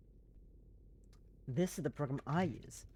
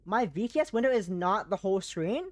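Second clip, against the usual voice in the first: lifted, airy put-on streamer voice, higher and louder; fun airy voice; 4 semitones higher, 5 dB louder than usual. Streamer explaining her setup to chat, in a higher airy fun voice. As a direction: play it light and airy, a silly fun voice. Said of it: "It's fun talking like this".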